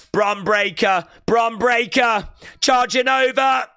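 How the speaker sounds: rising excited shout; wrestling commentator. Real, not acted. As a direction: call it like ringside play-by-play. Live call of the move.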